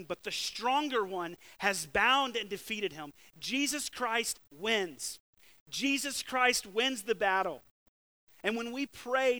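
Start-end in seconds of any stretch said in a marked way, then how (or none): 3.4-7.6 slow, loud, emphatic declaration; proclaimed. Real, not acted. Preacher to the congregation, proclaiming Christ's victory loudly. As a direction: ring it out like a victory cry.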